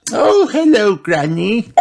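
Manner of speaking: put-on high childlike greeting, mildly relieved; a little relieved. A narrator's reading. Peppa sees Granny instead of only wolf, slightly relieved. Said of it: "a little relieved".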